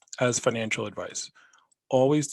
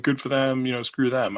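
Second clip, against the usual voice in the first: dry, bitter "Good for them, you know, screw them"; sarcastic good for them. Retold or imitated. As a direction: say it through your teeth. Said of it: "I'm not saying good for them, like".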